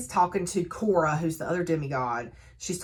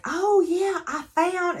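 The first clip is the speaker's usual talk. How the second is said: retold eager blurt; 12 semitones higher, slower than usual. Deacon arriving with news, eager blurt.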